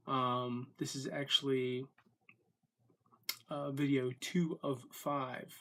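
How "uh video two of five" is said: hiccuping while talking; words broken by hiccups. Real, not acted. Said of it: "sorry, the hiccups".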